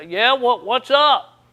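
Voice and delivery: loud, rising call back; answering shout, a bit alarmed; yelling back. Retold or imitated. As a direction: holler back, worried you're in trouble. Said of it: "so I, I yell back".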